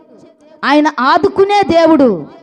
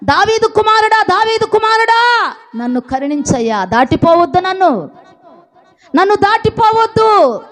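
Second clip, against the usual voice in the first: raised, pleading call; calling out loud; 4 semitones higher than usual. Retold or imitated. Blind beggar calls out to Jesus, a raised pleading cry. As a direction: call after him so he stops. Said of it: "గట్టిగా అరుస్తున్నాడు".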